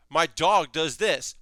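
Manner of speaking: a hint of a cheerful, carefree dog; lightly voiced happy-go-lucky dog, barely changed; light fun dog. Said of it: "light and fun and having a good time".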